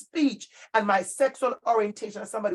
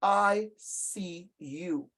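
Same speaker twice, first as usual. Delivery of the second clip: soft reverent quote; 3 semitones lower, 5 dB quieter, much slower than usual. Retold or imitated. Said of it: "when they said".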